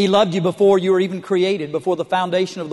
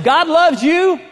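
high, loud, put-on sweetness on "God loves you"; sugar-coat it to cover the awkward moment; mock sweet blessing; 9 semitones higher, 6 dB louder, slower than usual. Mock blessing to warty stranger.

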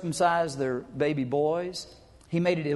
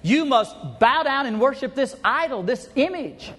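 high, loud royal command; a king ordering the Jews to bow, high and loud; tyrant's decree; 6 semitones higher, 3 dB louder than usual. Retold or imitated. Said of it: "he said to all the Jews".

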